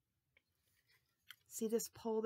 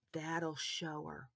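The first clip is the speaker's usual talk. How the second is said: whispered; 4 semitones lower, 4 dB quieter, slower than usual. Acted. Boy plotting revenge in thought.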